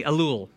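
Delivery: "Elul" repeated, eh-LOOL, falling at the end; Hebrew word demo. Shown as a demonstration. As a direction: say "Elul" again for them to echo. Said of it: "Try it out with me".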